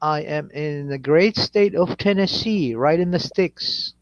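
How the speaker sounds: drawn out, word by word; slow announcement. Acted. Answering where he lives, slow deliberate drawl. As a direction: stretch each word grandly.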